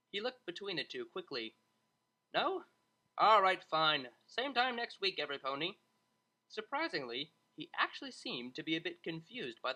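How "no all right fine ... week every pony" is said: exasperated dismissal. Acted. Tutor gives up, dismisses class.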